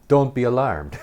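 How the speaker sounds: high, loud mock announcement; loud imitated psychiatrist. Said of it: "with this weird witch voice".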